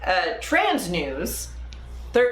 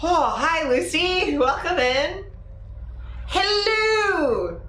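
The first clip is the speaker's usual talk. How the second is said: high sing-song hello; 8 semitones higher, slower than usual. Acted.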